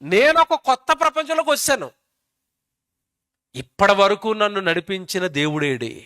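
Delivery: high-pitched, searching questions as a lost newborn; voicing a newborn. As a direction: act out a newborn calling for God. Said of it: "delivery అయిపోగానే వాడికి ఏంటంటే". (పుట్టిన బిడ్డ గొంతుగా దేవుడి కోసం వెతుకుతూ)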